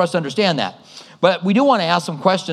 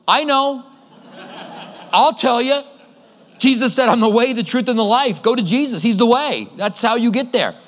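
urgent raised preaching; 6 semitones higher than usual. Retold or imitated. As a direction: call it out to the crowd, raised up high. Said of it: "literally wanting to go".

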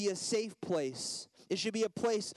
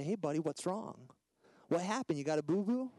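put-on tender daddy talk to a hurt child; imitating a caring father; gentle dad. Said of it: "I restore him gently".

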